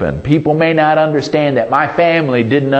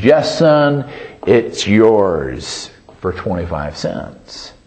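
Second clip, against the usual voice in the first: storekeeper; 5 semitones lower, slower than usual. A narrator's reading. Proprietor voiced in story.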